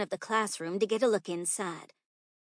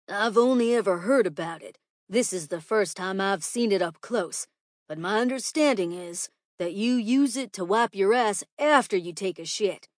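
lightly voiced, louder schoolteacher; explaining teacher; 6 dB louder than usual. Teacher tells pupils about toilet paper, lightly self-important. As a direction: explain it earnestly to the class.

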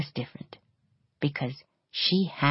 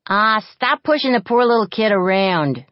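protesting; 6 semitones higher, 8 dB louder than usual. A narrator's reading. Defending the kid, loud.

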